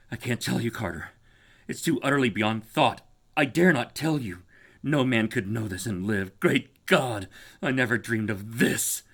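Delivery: a man horrified past words; fear and despair. Acted. Warren refusing to tell Carter, fearful despair. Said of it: "still hoarse with fear ... tinged with despair".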